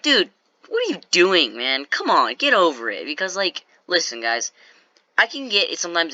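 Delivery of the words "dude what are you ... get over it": mildly raised, fed-up retort; exasperated retort. Retold or imitated. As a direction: imitate a coach telling someone to drop it. Coach's acted quarrel retort.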